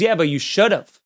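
angry, irritated voice. Retelling a heckler's reply from the front row: imitating an angry heckler. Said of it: "Like, angry at me".

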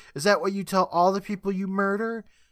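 high-pitched, shouted, accusing yell. Retelling a scene where A J confronts the night nurse: imitating A J yelling. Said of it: "And A J yells".

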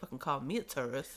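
annoyed, indignant, pissed-off griping tone. Retelling the other speaker's reaction to being called a tourist: imitating someone pissed off. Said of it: "you were so pissed".

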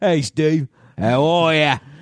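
put-on cockney voice. Arguing that a singer sounds cockney: the singer's cockney voice. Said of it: "He's kinda cockney".

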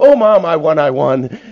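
loud, slow, drawn-out hammy overacting. Retelling a sitcom scene of winning most popular girl: imitating Jan Brady's terrible acting. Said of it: "my sister and I, to this day, when, when we can just go".

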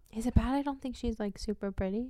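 tentative, quiet, unsure murmur. Giving an opinion unsure whether to say it: said really quietly. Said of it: "I said that really quietly".

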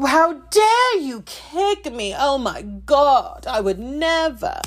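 very slow, high, put-on southern British accent. Acting out someone's line from a movie in a put-on southern british accent. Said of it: "That's my Southern British accent".

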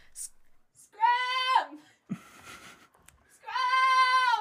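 shouting. Playing a character hanging from a ledge, calling for someone: yelling. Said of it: "I try to yell".

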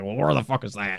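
mock gruff man's voice. Retelling a phone call, the speaker imitates the guy who picks up; imitating a gruff-voiced guy. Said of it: "this gruff-voiced guy is always picking up".

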